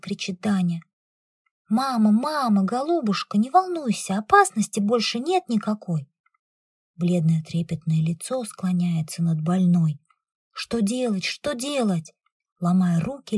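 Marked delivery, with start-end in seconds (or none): 1.7-6.1 high, urgent comforting plea; anxious pleading. Acted. Daughter pleads with her stricken mother, high anxious plea. 10.5-12.1 agitated babbling. Acted. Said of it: "лепечет взволнованный голос".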